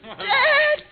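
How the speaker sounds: stunned, tearful question; dismayed disbelief. Acted. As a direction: gasp at the wreck of a house. Daughter dismayed at farm.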